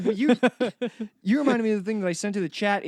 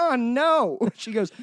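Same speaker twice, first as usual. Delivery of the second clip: sassy bystander; 5 semitones higher than usual. Retold or imitated. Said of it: "a big black woman".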